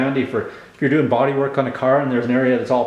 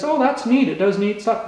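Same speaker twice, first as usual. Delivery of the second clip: imitating mother; 9 semitones higher than usual. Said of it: "she says".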